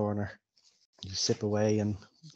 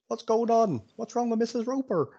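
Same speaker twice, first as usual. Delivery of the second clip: lightly acted concern, pitched higher; higher-pitched worried onlooker, mildly played; concerned villager; 10 semitones higher than usual. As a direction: ask as a bystander rushing over. Concerned villager rushes over to fainted woman.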